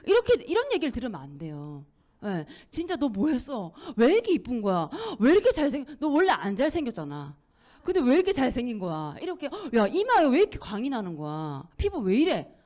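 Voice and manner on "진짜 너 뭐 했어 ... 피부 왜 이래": loud, excited gushing over a friend's looks; amazed compliments. Retold or imitated. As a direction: rave about how good they look. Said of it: "막 이런 얘기를 들어야 되는데". (친구 외모에 감탄하며 신나게 칭찬)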